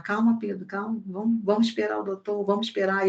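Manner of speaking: a quiet, steady voice calming a nervous son. Retold or imitated. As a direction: talk him down gently. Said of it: "teve que acalmar".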